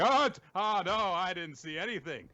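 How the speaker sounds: high, loud mock gasp of alarm; Ruru shocked. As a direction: blurt it out as a flustered character. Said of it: "and Ruru's shocked".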